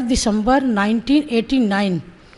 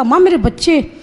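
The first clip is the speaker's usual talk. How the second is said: calling out "माँ मेरे बच्चे" a bit louder and higher; louder call to mother; 3 semitones higher than usual. Retold or imitated. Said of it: "फिर मैंने ज़ोर से कहा". ("माँ मेरे बच्चे" थोड़ा ज़ोर से पुकारते हुए)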